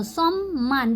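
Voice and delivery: "सम्मान" as shom-maan, rounded o; both m sounded. Shown as a demonstration. Teacher explains to learners, "सम्मान" with both m sounded. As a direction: hold the double m in "सम्मान". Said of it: "म को हम लोग पढ़ेंगे".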